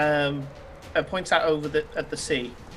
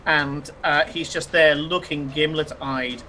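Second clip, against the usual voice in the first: game master narration; 3 semitones lower than usual. A narrator's reading. Game master sets the scene.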